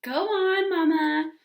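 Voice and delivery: high, loud eager plea; child urging her mother to read on. A narrator's reading. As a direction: push her to keep reading, impatient. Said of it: "urged Ramona".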